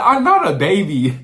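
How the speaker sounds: put-on loud, babyish whine; mock baby voice. Boy denying he's a baby, babyish pouting whine. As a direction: pout it like a spoiled kid. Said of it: "why are you talking like that?".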